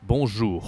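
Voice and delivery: "Bonjour" ending in a rasped French r; tiger-like r. Shown as a demonstration. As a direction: growl the last r of "Bonjour" like a tiger. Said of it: "you're like a tiger".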